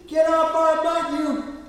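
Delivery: high, loud mock-angry child; little boy's voice. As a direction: imitate a small boy copying dad's yell. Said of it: "this little voice comes out".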